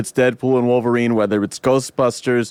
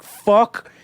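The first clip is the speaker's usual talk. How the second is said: mock angry outburst; 9 semitones higher than usual. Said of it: "I'm like".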